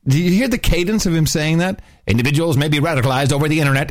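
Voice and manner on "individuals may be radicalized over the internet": put-on old newsreel. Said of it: "one of those old-time, uh, movie newsreel announcers".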